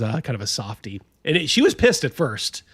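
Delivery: ordinary talk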